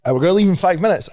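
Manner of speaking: impatient call. Retold or imitated. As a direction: push him out the door, fast and impatient. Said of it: "hurrying Sean again".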